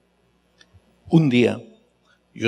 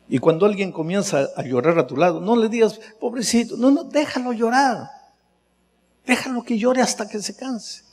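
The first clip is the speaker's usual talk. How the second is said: fervent exhortation; 8 semitones higher than usual. Acted. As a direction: coax them to let the tears out. Exhorta al oyente. (exhortación intensa y suave)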